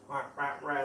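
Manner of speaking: quick repeated rah noises; bird squawk imitation. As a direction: mimic a bird tearing at food. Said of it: "and it's like".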